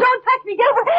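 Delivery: high, panicked pleading; frightened. Acted. Warding off the nurse she thinks is a killer, panicked and high. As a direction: push her away in terror. Woman recoils from murderous nurse.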